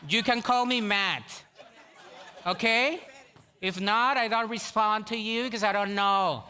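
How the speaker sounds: slow, snooty mock American voice; mock Americanized Matthew. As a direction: sneer like a proud Matt. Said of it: "dice Mateo". (burla altiva de Mateo americanizado)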